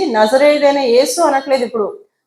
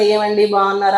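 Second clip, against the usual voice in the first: polite; 4 semitones lower than usual. Retold or imitated. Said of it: "మర్యాదగా".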